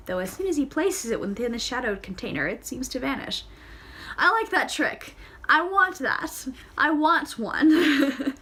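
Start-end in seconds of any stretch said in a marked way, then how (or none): 4.2-8.4 high, eager and loud, last words drawn out slowly; delighted, stretched-out I want one; excited wanting. Real, not acted. Reader's excited aside about trick.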